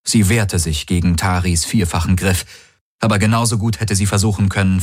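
usual speaking voice

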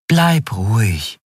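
slow, soothing caution; calm him like a worried mother; gentle understated warning; motherly concern. Acted. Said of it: "mütterliche Besorgnis aus ihrer Stimme".

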